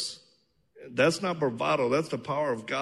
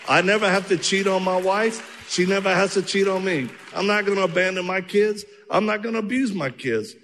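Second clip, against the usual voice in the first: higher, louder declaration of faith; defiant declaration; 6 semitones higher, 4 dB louder than usual. Retold or imitated. Man answering family's doubt, loud and resolute. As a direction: proclaim it with conviction. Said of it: "I said".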